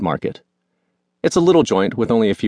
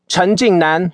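sharp scolding call of a full name; yelling child's full name; 10 semitones higher, 3 dB louder, slower than usual. A narrator's reading. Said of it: "using my full name".

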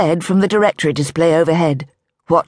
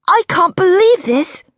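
high, slow, wonder-struck; amazed; 13 semitones higher, 4 dB louder than usual. A narrator's reading. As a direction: let the disbelief float up. Daisy amazed in jewellery store.

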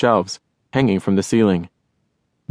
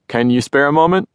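loud voice; 5 semitones higher than usual. Acted. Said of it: "Crow said in a loud voice".

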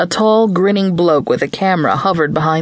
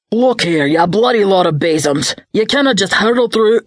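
a touch of a Scottish barman, raised and higher; lightly voiced Scots barman scolding the crowd; booming Scottish barkeep; 4 semitones higher than usual. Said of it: "The barkeep's voice boomed".

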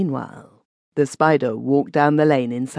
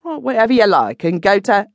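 curt curse; 7 semitones higher, 4 dB louder than usual. A narrator's reading. Witch cursing him off.

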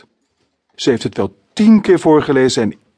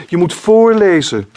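put-on child insisting; 8 semitones higher, 7 dB louder than usual. A narrator's reading. Child demands reading aloud.

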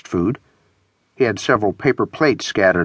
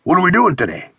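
a hint of talking through food, higher; mouth full; 8 semitones higher, faster than usual. A narrator's reading. Friend asking over a bagel, mouth full. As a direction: ask lightly as if chewing a bite. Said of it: "spoke with his mouth full".

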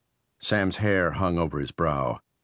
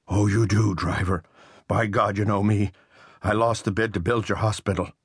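resentful contractor, pitched up and pressing; bitter intruder Riley; 3 semitones higher than usual. A narrator's reading.

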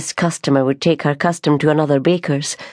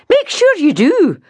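sharp insistence; 13 semitones higher, 5 dB louder than usual. Acted. Sister's sharp final word.

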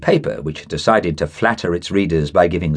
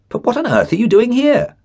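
astonished question. Acted. Surprised to meet him here.

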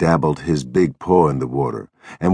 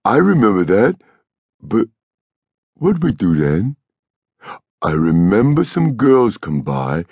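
put-on higher, childlike, eager figure voice; delighted Lennie; 6 semitones higher, slower than usual. A narrator's reading. Lennie proudly remembering for George, delighted. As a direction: recall it eagerly, slowing as memory gropes.

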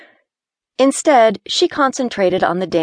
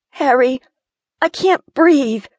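breathless panic; 8 semitones higher, 3 dB louder than usual. Acted. Gina panicking in the dark.

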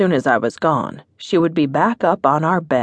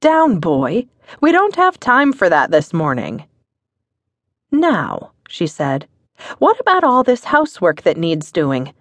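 wife's playful scold; 4 semitones higher than usual. Acted. Wife scolding husband about housework, mock-stern and higher. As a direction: rein him in with a light stern tease. Narrator voices wife Polly.

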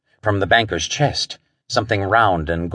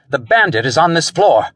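high, urgent exclamation; spat out; 6 semitones higher, 3 dB louder than usual. A narrator's reading. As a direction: sound the alarm urgently. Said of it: "Wentworth spat at him".

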